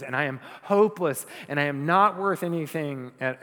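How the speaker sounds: loud, preached cry of awe; imitated awed yell. Worshipper fallen before the living God, a retold yell. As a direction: proclaim it loudly, as if overwhelmed before God. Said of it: "fall on their faces and yell".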